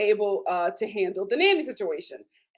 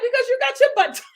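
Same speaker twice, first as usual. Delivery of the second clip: mock sassy Adriana; 6 dB louder, faster than usual. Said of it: "She was like".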